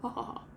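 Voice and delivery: soft, hollow ha ha ha; an empty, quiet pirate laugh. Acted. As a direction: laugh without any joy. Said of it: "in a hollow way".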